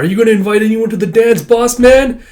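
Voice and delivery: fast, high, loud sidekick voice; eager sidekick. Acted. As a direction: pipe up to the boss, quick and high. Classmate voiced teasing Damien.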